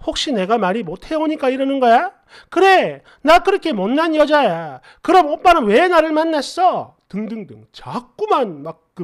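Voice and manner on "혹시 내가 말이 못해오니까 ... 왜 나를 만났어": put-on upset girlfriend's fussing. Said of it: "이렇게 난리를 치다가".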